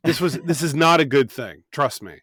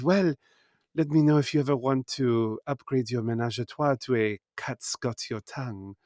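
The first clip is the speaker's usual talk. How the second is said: put-on teasing French accent, fading softer at the end; flirty French accent; 5 dB quieter than usual. Brothel worker making a pun to the players, flirty French accent. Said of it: "it was all French accents".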